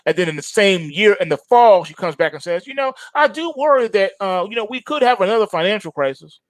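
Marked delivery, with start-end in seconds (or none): 2.7-6.4 mock worried quote. Mocking quote of Yellen.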